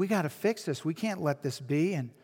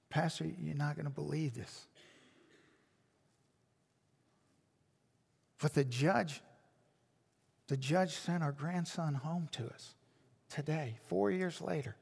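much softer, hushed retelling of her stunned call; hushed disbelief; 3 semitones lower, 9 dB quieter than usual. Retold or imitated. Grandmother telling the pastor on the phone that her grandson is coming home, in a hushed voice. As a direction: say it as if still hardly believing it.

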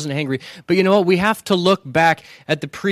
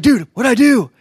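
baffled protest; 5 semitones higher than usual. Retold or imitated. Speaker protesting innocence.

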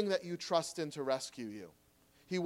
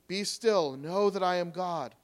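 proclaiming. Acted. Preacher quoting God to the church, proclaiming. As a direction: announce it like God's own command.

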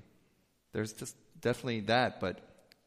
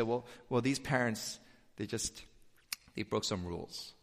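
softer, brushing it off as no big deal; mild mock excuse voice, trailing down; dismissive shrug; 2 semitones lower, 6 dB quieter than usual. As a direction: say it like a shrug, quietly. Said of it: "and then you say".

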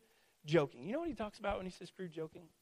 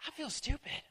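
sheepish; 9 semitones higher than usual. Retold or imitated. Dad embarrassed after doing armpit noises.

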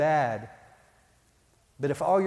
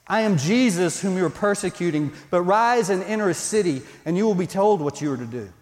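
a touch louder, firm commanding read; intense voice of Jesus; 3 dB louder than usual. Shown as a demonstration. Pastor reading Jesus's words to Saul, intense and commanding. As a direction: deliver it with weight and authority. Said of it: "This is intense".

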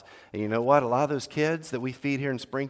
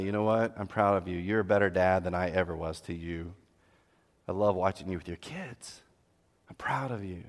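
tender father; 4 semitones lower than usual. Shown as a demonstration. Grandparent speaking to grown son.

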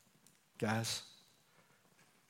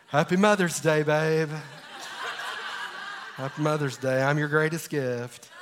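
playful mock self-satisfied husband; jokey, self-satisfied husband voice, half laughing; silly smug voice. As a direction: tease your wife in a lightly put-on voice. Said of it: "There's that voice again".

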